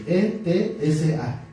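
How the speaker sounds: letra por letra, despacio: E T S A; deletreo lento. Shown as a demonstration. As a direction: deletrear E T S A con calma. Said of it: "Así como se oye". (deletreo pausado de la palabra hebrea)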